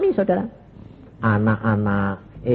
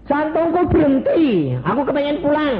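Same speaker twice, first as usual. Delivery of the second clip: begging plea; 13 semitones higher, 4 dB louder than usual. Retold or imitated. Preacher begging Jesus to take him home, high pleading. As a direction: beg like a child to go home.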